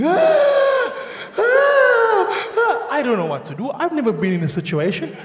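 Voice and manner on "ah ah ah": put-on high piercing child scream, much louder. Son stung by a blue bottle, screaming in pain. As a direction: scream like a stung little boy. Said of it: "Lighty starts screaming".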